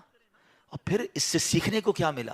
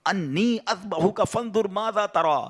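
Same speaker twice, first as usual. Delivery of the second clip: slow melodic Arabic recitation; Quranic recitation; 3 semitones higher, slower than usual. Acted. Preacher quoting Abraham's words from the Quran, slow recitation. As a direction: draw out each word as scripture.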